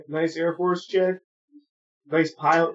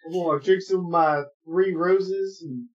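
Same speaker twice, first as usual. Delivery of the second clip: bad Southern accent; 3 semitones higher, slower than usual. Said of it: "your, your accent is horrible".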